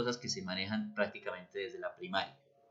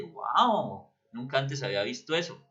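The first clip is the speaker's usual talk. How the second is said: mild wow; 2 semitones higher than usual. Shown as a demonstration. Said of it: "que me sorprende".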